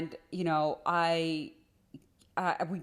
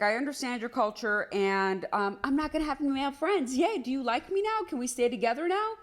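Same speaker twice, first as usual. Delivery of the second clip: high, sing-song self-mockery, climbing higher; sarcastic eager girlfriend, pitched way up; 7 semitones higher than usual. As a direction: play your naive younger self desperate to please. Mocking her eager past self.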